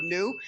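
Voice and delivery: new given clear extra weight; stress on new. Shown as a demonstration. Speaker promising a bright new day, stressing new. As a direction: lean hard on the word new. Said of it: "with emphasis on the word".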